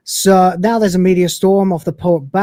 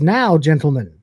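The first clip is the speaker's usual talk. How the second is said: tag Rimmer's order; slower than usual. Acted. Quoting Rimmer giving the order.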